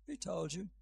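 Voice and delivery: mild, gentle questioning. Acted. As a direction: ask it tenderly, without pressing. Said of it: "very gently comes across and says".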